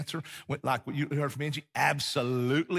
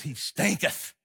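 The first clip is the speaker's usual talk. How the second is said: King James read; slower than usual. Retold or imitated. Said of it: "So the King James says".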